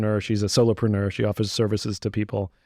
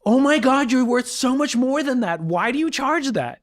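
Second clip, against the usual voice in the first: gushing normal person; 13 semitones higher, 3 dB louder than usual. Retold or imitated. Mocking how normal people would ask his friend, syrupy high gush. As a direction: overdo the sweet flattering friend. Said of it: "normal people would have said".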